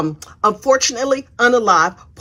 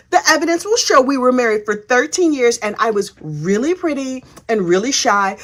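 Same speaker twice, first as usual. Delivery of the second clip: put-on innocent girl voice. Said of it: "innocent girl voice".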